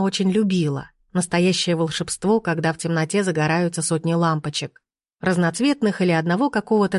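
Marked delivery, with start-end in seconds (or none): none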